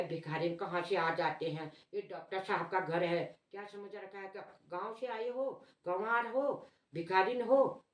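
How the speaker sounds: rising scolding, shooing off a beggar; scolding guard. Retold or imitated. Guard scolds the old woman at the gate, rising contemptuous scolding. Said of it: "ऐसा डांटने लग गया".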